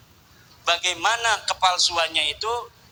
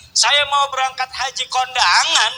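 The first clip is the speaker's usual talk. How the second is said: laughing shout; 4 semitones higher, 3 dB louder than usual. Real, not acted. Laughing outburst at story.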